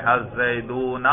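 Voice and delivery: الزیدون said slowly with a long "oo"; waw sounded out. Shown as a demonstration. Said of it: "ہم یہاں پر واو پر تلفظ کریں".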